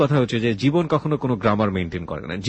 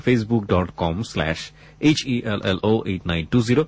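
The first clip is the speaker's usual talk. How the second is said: very slow, letter by letter; slow spelling out; much slower than usual. Shown as a demonstration. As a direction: spell the address out slowly. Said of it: "আমি আবারও বলছি". (ধীরে ধীরে বানান করে)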